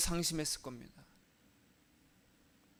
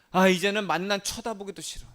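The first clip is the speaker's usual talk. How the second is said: fed-up complaint; 3 semitones higher, 4 dB louder than usual. Retold or imitated. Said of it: "어떻게 불평, 불만을 했냐".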